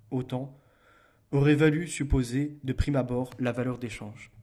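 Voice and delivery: measured, emphatic book reading; reading aloud. Real, not acted. Streamer reads Marx's critique of Proudhon to viewers, emphatic reading aloud. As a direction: read the argument out firmly and clearly.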